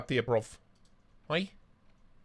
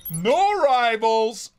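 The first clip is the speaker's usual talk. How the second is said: slow hammed-up rhyme; 6 semitones higher, 6 dB louder, much slower than usual. Rhyming riff on new arrivals.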